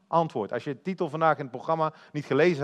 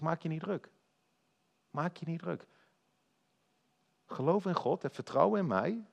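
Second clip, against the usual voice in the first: tender, hushed reassurance to worried followers; compassionate reassurance. Acted. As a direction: soothe frightened friends gently. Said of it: "Hij is empathisch".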